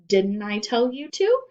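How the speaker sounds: loud, sharp teacher scolding; stern demand. A narrator's reading. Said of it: "she demanded".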